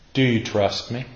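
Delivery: soft, hushed question; gentle asking. Acted. God asking the preacher for trust, gently. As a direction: ask it quietly and tenderly.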